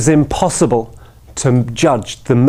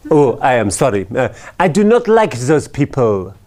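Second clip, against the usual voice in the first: put-on French accent. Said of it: "it's France, after all".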